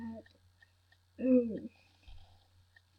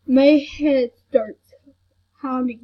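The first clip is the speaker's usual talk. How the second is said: crying; 5 dB louder than usual. Real, not acted. Crying about headache.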